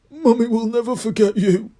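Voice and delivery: high, loud sobbing goodbye; sobbing farewell. A narrator's reading. Hagrid sobbing goodbye to his dragon, high and loud. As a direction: wail it like a parent losing a child. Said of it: "Hagrid sobbed".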